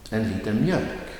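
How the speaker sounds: light on En liter, lean on mjölk; stress on mjölk. Shown as a demonstration. Teacher models an example phrase, stress on mjölk. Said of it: "the noun will get the emphasis".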